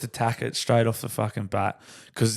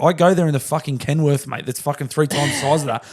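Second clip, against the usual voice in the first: higher, heated retelling of the rant; retold telling-off; 5 semitones higher than usual. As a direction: boss recalling how he chewed out his worker, mock anger. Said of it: "'cause I was very angry and embarrassed about it".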